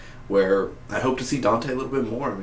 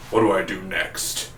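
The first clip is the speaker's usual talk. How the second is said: lightly voiced henchman; 3 semitones lower, slower than usual. Rupture asking Zoom.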